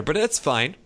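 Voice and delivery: strained, grudging "it's fine"; through gritted teeth. Real, not acted. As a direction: force it out through clenched teeth. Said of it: "He says through gritted teeth".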